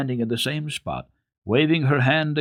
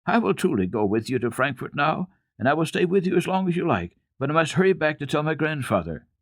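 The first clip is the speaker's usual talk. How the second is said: put-on a child's pleading, pitched higher, a touch of tears; mock sobbing; 7 semitones higher than usual. A narrator's reading. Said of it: "she sobbed out".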